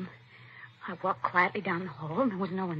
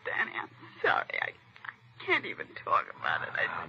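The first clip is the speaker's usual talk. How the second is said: shaken whisper; 4 dB quieter than usual. Acted. Shaken victim after attack.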